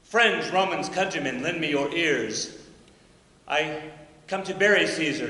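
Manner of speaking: lightly declaimed speech, slowing at the end; oration as Shakespeare. Acted. Teacher reciting Mark Antony's speech to students, lightly declaimed. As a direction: recite it like a stage orator. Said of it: "he might say".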